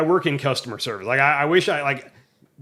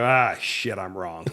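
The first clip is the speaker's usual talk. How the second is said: deflated admission; 5 semitones lower, slower than usual. Retold or imitated. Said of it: "immediately to look it up and go".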